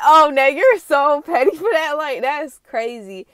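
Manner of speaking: excited teasing. Retold or imitated. Viewer teasing Nay about being petty, loud and playful. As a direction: tease her for being petty. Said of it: "I was like".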